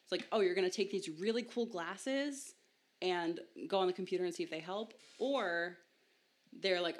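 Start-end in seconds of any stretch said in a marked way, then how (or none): 0.3-4.9 upbeat pitch. Retold or imitated. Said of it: "the tone with which they were told these glasses was either positive or negative".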